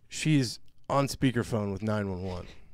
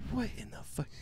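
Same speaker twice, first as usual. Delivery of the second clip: incredulous; 12 semitones higher, 9 dB quieter than usual. Retold or imitated. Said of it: "I was like".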